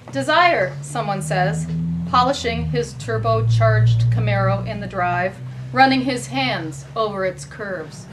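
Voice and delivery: measured recital, falling phrase ends; poetry reading. Acted. Host reading two partial stanzas, measured poetry reading. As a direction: read it out phrase by phrase. Host reads poem excerpt.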